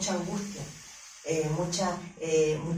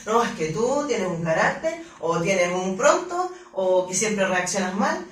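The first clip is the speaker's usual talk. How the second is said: louder, slowing accusing voice; reproachful accusation; 6 dB louder than usual. Retold or imitated. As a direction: drag out the blame like a nagging partner. Others reproaching the speaker's temper.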